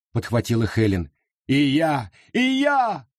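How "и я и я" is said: high squeal. A narrator's reading. Jane squeals to the crowd, high and eager. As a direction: squeal to join in. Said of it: "взвизгнула Джейн".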